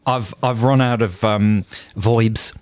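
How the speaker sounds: lightly put-on matey Aussie; mock Australian accent. Co-host posing as the owner of an album, mock Australian. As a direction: play a casual Australian bloke.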